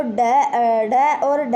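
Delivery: slow, drawn-out flapped 'ड' and 'ढ'; flapped letters shown. Shown as a demonstration. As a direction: draw out ड and ढ as flapped ड़, ढ़. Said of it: "इनका जो उच्चारण है वो बदल जाता". (ड और ढ को खींचकर ड़, ढ़ बोलें)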